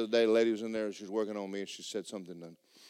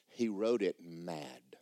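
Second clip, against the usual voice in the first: whisper; 8 semitones lower, 9 dB quieter, much slower than usual. Real, not acted. Whispered emphasis on Paul.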